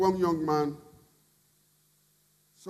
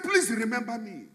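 pleading cry; 6 semitones higher than usual. Acted. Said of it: "That is the cry".

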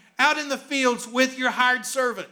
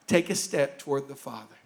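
softer, lower call to step toward the Father; hushed invitation; 10 semitones lower, 6 dB quieter than usual. Real, not acted. Preacher inviting the congregation, quiet and earnest. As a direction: draw the listeners in gently. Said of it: "How do you experience joy with Jesus?".

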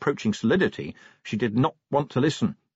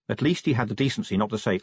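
plain reading voice

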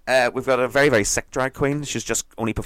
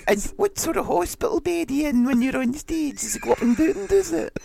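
very high chat-show host parody; hammed-up high-pitched TV host; Lorraine Kelly. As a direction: interview in a squeaky mock presenter voice. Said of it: "Lorraine Kelly, hun, so tell me".

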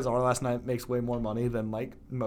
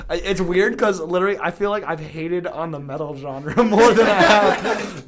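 laughing; 8 semitones higher, 11 dB louder than usual. Real, not acted. Laughing while admitting hate.

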